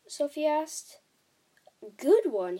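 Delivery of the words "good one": loud, emphatic echoed question; incredulous cry. A narrator's reading. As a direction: exclaim it in delighted disbelief. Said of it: "he cried".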